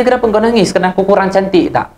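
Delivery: worried wife's question. Acted. Wife asks her crying husband.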